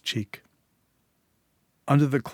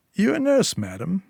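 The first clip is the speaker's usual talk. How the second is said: gruff man; 9 semitones higher, 4 dB louder than usual. Acted. Declan eyes Julia and asks.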